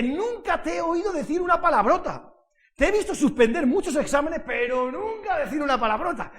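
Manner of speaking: loud, high, emphatic astonishment; amazed teacher. Retold or imitated. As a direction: marvel loudly, as an imitated teacher would. Acting out an amazed teacher's remark. (profesora asombrada, en voz alta y aguda)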